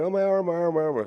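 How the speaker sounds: very high, acted sobbing, complaining tone. Retelling a childhood fall after breaking an arm, imitating own crying. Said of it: "And so I'm crying".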